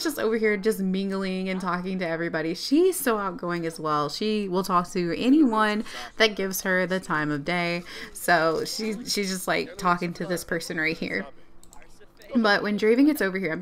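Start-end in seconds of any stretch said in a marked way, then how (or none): none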